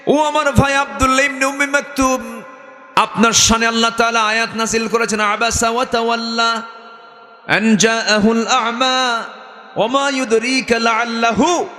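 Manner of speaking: high, chanted address to a beloved brother; high cantillated appeal with mock-tearful pull; retold tearful address. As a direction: intone it high, as if moved to tears. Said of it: "চোখে পানি চলে এলো".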